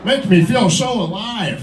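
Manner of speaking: lightly voiced old man, laughing through it; a hint of a cackling old timer.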